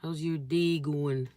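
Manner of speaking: slow, lightly imitated Canadian accent; Toronto-like Canadian accent. Shown as a demonstration. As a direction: play with a slight Toronto accent, drawing it out. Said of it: "like, Canada accent".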